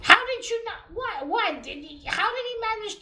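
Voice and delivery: loud, high, exasperated How did you not; exasperated outburst. Real, not acted. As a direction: throw up your hands in disbelief. Ranting about comic plot hole.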